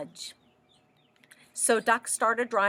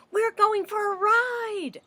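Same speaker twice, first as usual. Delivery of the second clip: high, happy dog voice; 12 semitones higher, 3 dB louder than usual. Acted. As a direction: play the eager dog. Dog's thought voiced.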